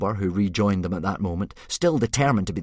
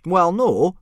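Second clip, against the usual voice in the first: high, loud gruff Viking; sheepish admission; 12 semitones higher, 10 dB louder than usual. A narrator's reading. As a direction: admit it with a shrug. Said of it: "Gobber admitted".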